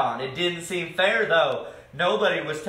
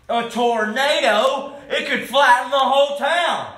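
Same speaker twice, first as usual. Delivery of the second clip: high, raised voice of sudden alarm; 6 semitones higher, 5 dB louder than usual. A narrator's reading. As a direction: cry out at the looming danger. Hero spots a tornado coming.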